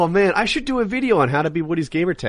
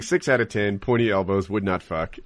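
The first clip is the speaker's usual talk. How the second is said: judgmental rating; 4 semitones lower than usual. Retold or imitated. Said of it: "standing in his truck looking judgmental".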